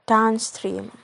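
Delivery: "downstream" with main stress on "stream"; stress on second word. Shown as a demonstration. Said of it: "The stream is primary stress".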